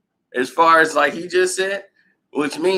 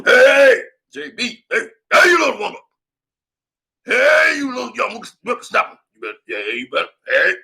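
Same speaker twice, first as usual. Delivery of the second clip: a higher, louder, mocking yell at the coach; hammed-up raging player; 7 semitones higher, 3 dB louder than usual. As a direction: scream insults at the old man, half laughing.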